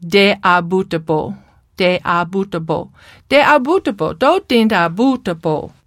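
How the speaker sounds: "de a bootible" with d for th and no glides; child's speech errors. Shown as a demonstration. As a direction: mimic a child mangling consonants. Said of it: "Do you hear the vowel problems".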